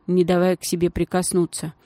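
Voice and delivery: plain reading voice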